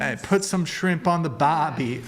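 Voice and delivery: badly faked Aussie accent; deliberately corny Australian cliché. Streamer attempts Australian on request, badly faked Aussie. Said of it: "Oh my God, so bad".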